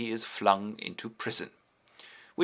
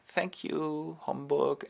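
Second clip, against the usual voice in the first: soft, higher-pitched princess thanks; gracious thanks; 6 semitones higher, 4 dB quieter, much slower than usual. Retold or imitated. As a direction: thank him graciously and softly. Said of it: "which she graciously accepts".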